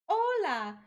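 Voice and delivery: high, loud, very slow cartoon kid voice; sing-song it like a kids' show host; Dora impression. Showing off impressions to friend, high slow cartoon Dora. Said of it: "I feel like that was bad".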